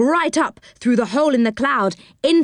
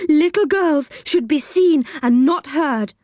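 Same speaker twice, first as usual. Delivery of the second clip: high-pitched mimicry of a horrid scold; mildly horrid voice; 8 semitones higher than usual. A narrator's reading. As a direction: scold primly in a higher, horrid voice. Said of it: "in a horrid kind of voice".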